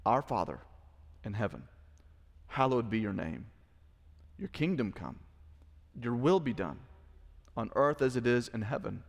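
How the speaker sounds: measured phrases with long pauses between; solemn prayer recitation. Real, not acted. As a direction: recite the prayer gravely, line by line.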